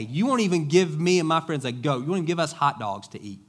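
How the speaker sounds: a mildly hammed-up indignant older brother; aggrieved older son. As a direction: sulk it out like the wronged son. Older son complains to father.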